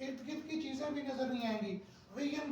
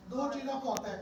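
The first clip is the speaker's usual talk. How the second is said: ordinary delivery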